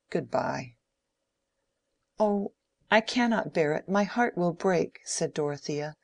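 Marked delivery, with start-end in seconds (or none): 0.1-0.7 with exasperation. A narrator's reading. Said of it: "with a sort of exasperation". 2.2-5.0 higher and louder, heart breaking; passionate anguish. A narrator's reading. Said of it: "the flood of her young passion".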